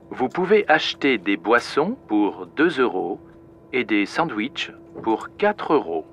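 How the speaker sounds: calm cabin crew announcement; airport announcement. Acted. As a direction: welcome passengers on board. In-flight announcement. (annonce à bord)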